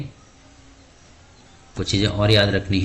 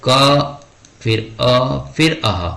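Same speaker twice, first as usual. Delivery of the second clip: spelled out slowly; 4 semitones higher, 3 dB louder, much slower than usual. Shown as a demonstration. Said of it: "जैसे मैंने लिख दिया कह".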